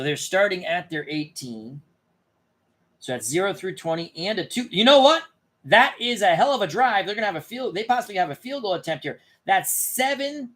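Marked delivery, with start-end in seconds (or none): 4.7-10.5 high, loud burst of excitement over a big drive; real thrill, voice jumping up; excited play-by-play rush; got excited. Real, not acted. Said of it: "I got excited".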